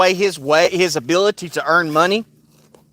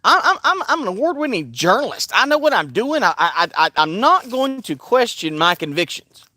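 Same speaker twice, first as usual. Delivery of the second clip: higher, fast huffy voice; mock indignant reporter; 4 semitones higher than usual. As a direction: play her outraged and proud. Burning in her soul said.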